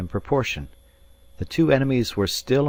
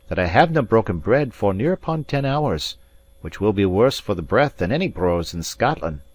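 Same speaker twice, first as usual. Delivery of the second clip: Scots Highlander, pointed and proud; lightly voiced proud Scot; proud Highlander Alan; 3 semitones higher, 4 dB louder than usual. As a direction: press your hunger as a point of honour. Narrator voicing Alan.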